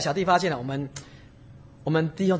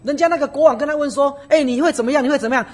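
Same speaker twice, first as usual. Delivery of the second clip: a king questioning; 8 semitones higher, 6 dB louder than usual. Acted. King questions Joseph and Daniel.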